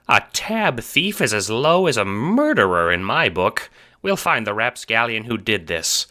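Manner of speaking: high, loud, righteous vow; indignant mayor. A narrator's reading. Mayor vowing justice for the renegade, indignant. Mayor vows to catch thief.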